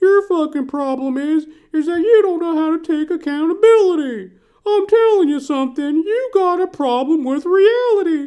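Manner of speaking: loud, high-pitched, lecturing rant. Recalling turning on Dr. Phil, speaker acts out what he'd say, Dr. Phil impression. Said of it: "And he'd be like".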